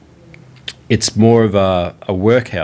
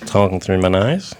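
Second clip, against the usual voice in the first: nasal Aussie. Retold or imitated. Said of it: "talk through their nose".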